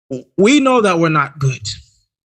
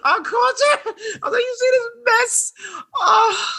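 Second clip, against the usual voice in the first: gloating glee; 3 dB quieter than usual. Real, not acted. Gloating call, high voice.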